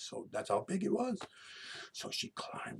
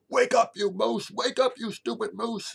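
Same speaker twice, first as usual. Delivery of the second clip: put-on high, full-force little girl's yell; 13 dB louder than usual. Little girl yells to wake the moose. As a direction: yell at the top of your voice, pitched way up. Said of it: "She yelled".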